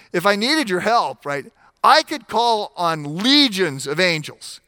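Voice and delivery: loud mock swagger, leaning on needed; cocky attitude. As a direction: brush Peter off with breezy confidence. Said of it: "he doesn't say it with quite this attitude".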